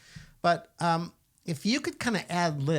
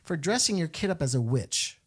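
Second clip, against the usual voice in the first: imitating Mother Angelica; 4 semitones higher than usual. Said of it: "I think she would say something like".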